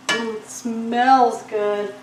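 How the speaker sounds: slow, drawn-out mm of pleasure; savoring a smell. Real, not acted. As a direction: breathe it in and relish it. Cook tastes the cooking aroma.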